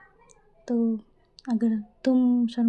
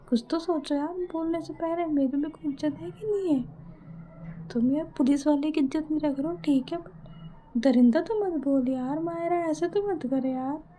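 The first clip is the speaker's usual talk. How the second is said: lightly acted loving plea, pitched up a little; cute, affectionate plea; 4 semitones higher than usual. Ishani begs Mayra not to call her a beast, cute affectionate plea. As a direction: plead sweetly with a cute pout. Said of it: "cute सा face बना के ऐसे प्यार से".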